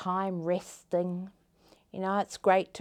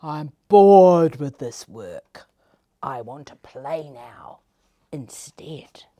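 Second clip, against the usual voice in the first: bored caterpillar; 5 semitones lower, 12 dB louder than usual. Acted. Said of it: "stopped his work and he said".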